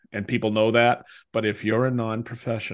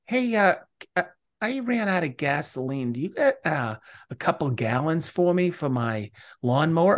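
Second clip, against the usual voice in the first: mooching neighbor; 4 semitones higher than usual. Retold or imitated. Neighbor voiced asking for gasoline.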